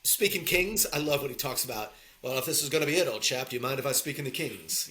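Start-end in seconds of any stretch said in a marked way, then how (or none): 2.2-4.9 put-on quoting in an English accent. Podcaster quotes a film line to co-host, in an English accent. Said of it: "You know, the English accent".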